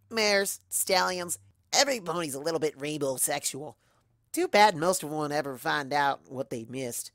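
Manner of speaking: cocky tomboy voice; brash wisecrack; Rainbow Dash. Acted.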